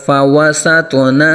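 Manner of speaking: فَوَسَطْنَ with a bounced ط and full, heavy ط; qalqala on ط. Shown as a demonstration. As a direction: echo the stop on ط in فَوَسَطْنَ. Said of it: "توا ساکن میں قلقلہ کریں گے".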